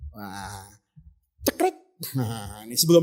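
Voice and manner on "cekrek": high, quick shutter noise; imitated camera click. Speaker imitating a secret photo, high vocal click.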